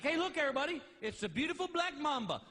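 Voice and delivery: mock cheerful TV presenting; himself as show host. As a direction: present the snake to everybody in his own accent. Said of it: "'Cause I'd be like".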